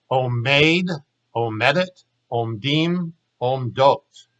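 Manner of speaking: unhurried model forms for students to repeat, each word given its own beat; slowly. Shown as a demonstration. Hebrew teacher modeling present-tense forms for students to copy, slowly. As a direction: lay out omeid, omedet, omdim, omdot one at a time, unhurried. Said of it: "You try slowly".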